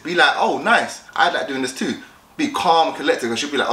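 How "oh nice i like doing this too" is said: casual, unfussed approval; restrained interest. Shown as a demonstration. Guy showing interest in a girl's hobby, restrained. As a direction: show interest but hold back the excitement. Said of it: "but not too excited".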